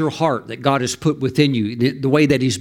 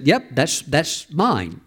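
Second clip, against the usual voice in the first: unhurried, calm reply, a little softer; 4 dB quieter, slower than usual. Retold or imitated. Pastor calmly claims the lobster from the waiter, very calm. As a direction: say it as if it's nothing unusual. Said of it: "very calmly said".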